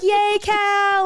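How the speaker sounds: high, loud fake cheer; mock cheer. Friends cheering the husband home, high fake joy. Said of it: "We're like".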